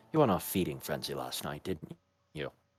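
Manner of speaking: speaking low. A player's character speaks so only Dragomir can hear, in a low voice. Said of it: "still in a low voice".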